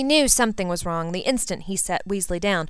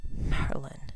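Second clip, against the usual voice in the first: a stunned breath, softer and lower; barely voiced in shock; 5 semitones lower, 5 dB quieter than usual. A narrator's reading. Draco staring at thrown Ginny, breathed in shock. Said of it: "he breathed".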